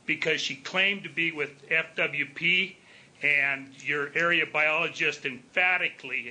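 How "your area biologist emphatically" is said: a slight extra weight on emphatically, the rest said evenly; stress on emphatically. Real, not acted. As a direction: lean gently into the word emphatically. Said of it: "I want to emphasize the word emphatically".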